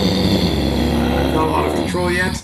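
rough growl from the throat; growly false-fold voice. Shown as a demonstration. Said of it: "kind of like this".

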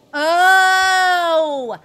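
the penny drops; sudden realization. Real, not acted. Streamer realizes why the mod needs a restart, surprised.

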